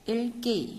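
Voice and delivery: "Ilki" with the l sounded; corrected reading. Shown as a demonstration. Teacher demonstrating the correction, "Ilki" with a clear l. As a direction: say "Ilki" as il-ki, falling at the end. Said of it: "Đọc là il".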